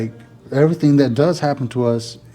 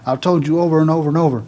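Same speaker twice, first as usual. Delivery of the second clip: retold irate rant; 5 semitones higher than usual. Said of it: "kind of irate about it".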